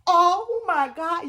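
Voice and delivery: drawn-out wail, slow and rising; mock-tearful moan of despair; crying. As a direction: stretch it out as if breaking into tears. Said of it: "I started crying down".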